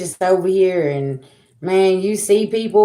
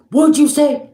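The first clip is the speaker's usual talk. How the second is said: higher, louder mock threat from him; menacing retort; 11 semitones higher, 6 dB louder than usual. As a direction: throw back his menacing challenge, raised and loud. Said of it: "And he's like".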